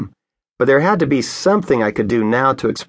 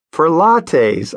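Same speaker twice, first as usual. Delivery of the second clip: bright answer through a smile; 5 semitones higher than usual. Retold or imitated. Pastor answering the deputy, with a smile. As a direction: let the smile carry the words. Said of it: "I answered with a smile".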